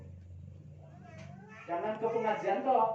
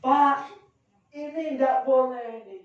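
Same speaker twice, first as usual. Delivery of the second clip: spontaneous objection; 5 semitones higher, 5 dB louder than usual. Retold or imitated. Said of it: "Saya spontan ngomong".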